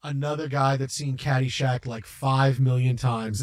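lightly voiced jaded actor; bored celebrity. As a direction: sigh it like a tired star. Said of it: "he walks away like".

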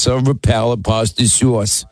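put-on silver palate pasta sauce in a light New York accent; imitating how Linda says silver palate pasta sauce in New York; mock New York accent. Host mocks how Linda says it, New York accent. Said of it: "Linda says".

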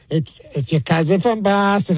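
put-on slow, teasing Boston accent; mock Boston accent. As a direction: imitate a Boston accent, drawing out the words. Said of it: "making fun of, like, the, the Boston accent".

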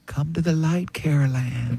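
soft breathy whisper at the end; faint ghostly voice. Retold or imitated. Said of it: "a faint voice going".

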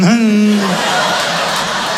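mock childish snickering laugh; imitated kids' giggle. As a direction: snicker like six-year-olds. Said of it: "and the kids are laughing".

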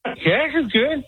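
slow, drawled voice of a singer; lightly imitating a singer; a hint of a singer; a singer impression. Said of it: "the singer is all right".

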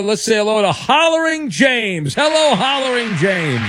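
radio host greeting. Acted. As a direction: welcome the caller like a show host. Host re-announces the caller.

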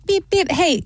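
high, light spoken beeps; mock honk, pitched well up; attention-getting honk. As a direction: imitate a friendly car horn for attention. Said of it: "It was more like".

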